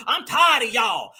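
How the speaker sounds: hammed-up outraged yell; mock call-out shout. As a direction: shout it like a staged protest. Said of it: "act like they calling out the dominant society".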